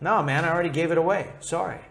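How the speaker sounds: very fast, offhand dismissal; casual brush-off. Retold or imitated. Father shrugging off Esau's plea, quick casual brush-off. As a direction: toss it off like it's no big deal. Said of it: "And his father's like".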